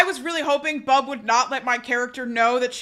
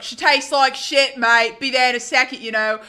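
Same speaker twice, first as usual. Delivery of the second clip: lightly imitated British sailor; put-on British accent. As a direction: fake a casual British accent. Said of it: "he was British".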